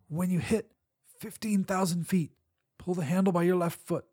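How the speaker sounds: wet gurgling voice. Acted. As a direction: speak through a gurgle. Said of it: "Robert's voice gurgled in my ear".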